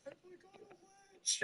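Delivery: high, thin mocking voice of a needy friend; mocking a friend who wants attention; mock whiny friend. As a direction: mimic the caller, high and small. Friend calling, mocked quote.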